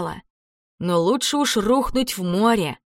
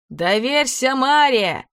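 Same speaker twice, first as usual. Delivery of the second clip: captain's shout; 5 semitones higher, slower than usual. A narrator's reading. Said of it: "крикнул капитан".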